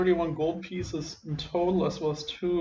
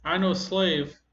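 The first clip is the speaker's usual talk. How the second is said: higher, timid goblin pleading; a scared old goblin answering back; quavering goblin voice; 4 semitones higher than usual. Acted. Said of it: "kinda like a quavering voice".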